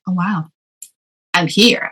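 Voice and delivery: understated retold wonder; humbled realization. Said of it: "extremely humble and proud to realize".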